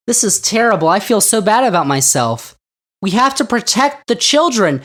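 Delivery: sarcastic pearl-clutching; mock hand-wringing. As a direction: parody a panicked parent. Mocking guilty white parents.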